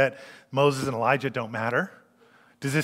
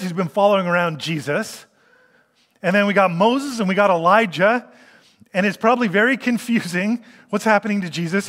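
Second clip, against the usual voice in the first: raised, eager voice of a flustered Peter; excited Peter; 4 semitones higher, 3 dB louder than usual. Retold or imitated. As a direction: blurt it out like a confused disciple. Preacher voices confused Peter.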